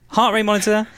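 light TV-sales pitch voice; shopping channel host. Pretend. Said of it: "I sound like I'm on the shopping channel".

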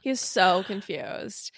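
slow, laughing remark. Real, not acted. Host laughs about the puzzled reader, amused. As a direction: say it slowly through laughter.

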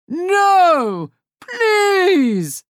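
high, pleading cry; terrified plea. Acted. Hook begging Wendy not to shoot, high frightened cry. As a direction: beg for your life.

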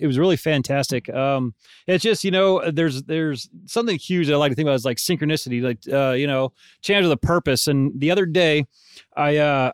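ordinary delivery

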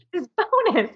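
very high, squeaky insistence; mock pleading emphasis. Boss nudging her employee about the bonus, very high. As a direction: sell it one last desperate time.

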